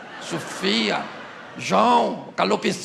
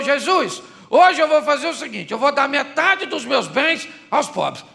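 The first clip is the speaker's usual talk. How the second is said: a louder, higher proud pledge; Zacchaeus's pledge; 4 semitones higher, 5 dB louder than usual. Acted. Zacchaeus promising Jesus half his goods, louder and proud. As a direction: announce the gift to Jesus grandly.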